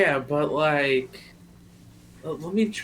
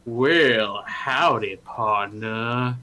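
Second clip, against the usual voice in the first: Noct voice; 5 semitones lower, much slower than usual. Shown as a demonstration. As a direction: slightly lower southern cowboy drawl. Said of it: "if you want me to be like".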